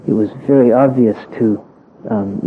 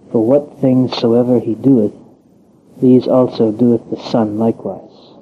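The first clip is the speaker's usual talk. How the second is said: scripture reading. Acted. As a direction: read it as holy text, unhurried. Reads scripture aloud solemnly.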